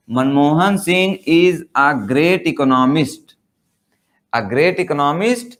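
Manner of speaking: each word spelled out very slowly; slow dictation. Shown as a demonstration. Teacher reads the example to the class, very slow. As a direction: read it out slowly like dictation for students.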